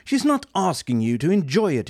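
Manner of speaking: fed-up shout. Acted. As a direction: yell at the robot. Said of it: "he shouted".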